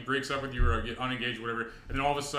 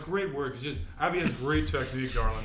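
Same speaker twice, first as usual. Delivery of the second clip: posh fiance; 2 semitones higher than usual. Retold or imitated.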